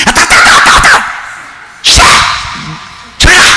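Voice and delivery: mock whining kid, high pitched protest; whiny child. Daughter pushing dad's prickly beard away, mock whine. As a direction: squeal like a kid scratched by a beard. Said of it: "막 이래요".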